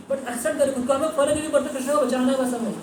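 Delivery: high-pitched, urgent voicing of devotees; acted devotional urgency. Teacher voicing villagers who rush to save Krishna, urgent.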